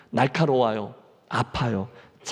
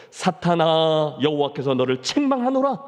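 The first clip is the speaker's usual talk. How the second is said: slow, measured stern rebuke; God rebuking Satan. Acted. Preacher voicing God rebuking Satan, slow and stern. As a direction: draw out each word with authority. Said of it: "사탄을 꾸짖는다는".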